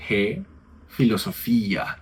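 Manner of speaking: filosofía with a plain f, as in Spanish; filosofía con f como en koiné; Koine f sound. Shown as a demonstration. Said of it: "En griego koiné va a ser".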